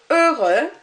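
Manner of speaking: heureux ending in a rounded eu, no x; French eux sound. Shown as a demonstration. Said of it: "more of an E sound".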